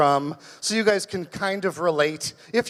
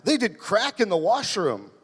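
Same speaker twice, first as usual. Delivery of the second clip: roommate voice; 3 semitones higher than usual. Retold or imitated. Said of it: "And he's like".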